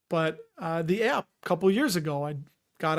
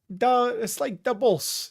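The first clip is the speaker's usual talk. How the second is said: higher, slower Chicago accent; half-successful Chicago accent; attempted Chicago accent; 5 semitones higher, slower than usual. Shown as a demonstration. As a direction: try out a Chicago sports-fan accent. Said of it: "I can't do it now".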